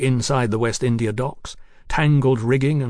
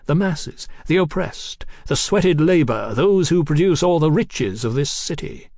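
higher, emphatic oratory; fervent revolutionary Marquis; 5 semitones higher, 4 dB louder than usual. Acted. Marquis preaching his cause to Mallory, fervent and emphatic. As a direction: build the list like a rallying speech.

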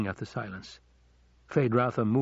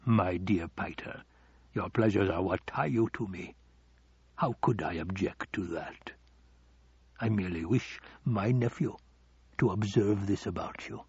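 slightly lowered, measured villain voice; silky Baron. Acted. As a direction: soothe the servant with understated menace. Baron soothes and threatens Piter.

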